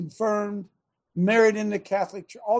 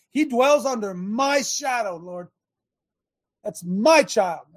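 bold prayer; 3 semitones higher than usual. Shown as a demonstration. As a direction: claim the child before God with full force. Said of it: "Speak life. Speak victory".

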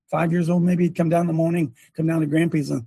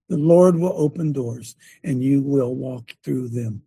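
slowed right down, each word weighed; slow reverent quote; 4 semitones lower, slower than usual. Retold or imitated. Preacher retelling his grandson's blessing, slow and reverent. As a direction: lay the child's words down slowly and solemnly. Prophecy repeated for the congregation.

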